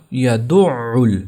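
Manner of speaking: یدع ال as slow "ya-du'-'ul"; یدع ال with a hard doubled ain; firm shadda. Shown as a demonstration. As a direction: press and hold the ain in یدع ال. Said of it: "اس کو سختی سے پڑھنا ہے".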